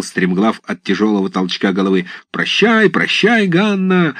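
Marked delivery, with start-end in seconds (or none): 2.3-4.2 high jeering yell of a pack of lads; shouted farewell. A narrator's reading. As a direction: holler it high and mocking. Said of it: "закричал несколько парубков".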